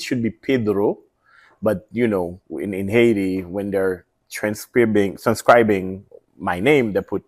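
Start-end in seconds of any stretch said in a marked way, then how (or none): 0.3-1.0 "Pedro" with the final o sounded; Spanish pronunciation. Shown as a demonstration. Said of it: "my last name is Spanish".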